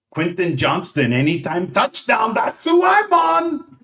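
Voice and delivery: a hint of a clueless pundit reading a pick; mocking the TV host. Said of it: "she'll say".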